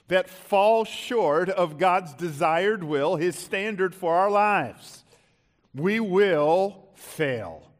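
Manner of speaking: slow, weighty sermon delivery; measured pulpit emphasis; emphatic preaching. Real, not acted. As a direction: preach it slowly, drawing out key words. Preaches to congregation.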